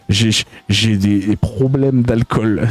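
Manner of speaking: put-on accent d'ivrogne léger, très lent; voix d'ivrogne moquée. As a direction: imite un type achevé, au ralenti. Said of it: "un timbre de voix où on dirait qu'il est achevé". (légère imitation moqueuse d'un ivrogne)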